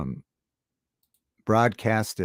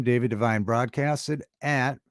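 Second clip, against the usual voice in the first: slow, deliberate announcer read; radio voice; slower than usual. Shown as a demonstration. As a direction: spell it out like a DJ. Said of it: "while I got my radio voice going".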